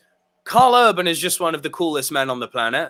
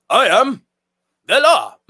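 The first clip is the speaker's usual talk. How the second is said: higher, loud mock-heroic declaration; hammed-up action hero line; Dredd catchphrase; 4 semitones higher, 5 dB louder than usual. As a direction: belt out the catchphrase, pausing midway. Quotes Dredd's catchphrase loudly.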